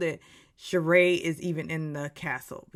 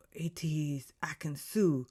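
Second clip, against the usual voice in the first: hushed, slow reveal in a put-on accent; Alan; 2 semitones lower, 5 dB quieter, slower than usual. Game host revealing who was poisoned, hushed put-on accent. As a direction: whisper the name slowly in a mock accent. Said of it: "I'm doing this accent".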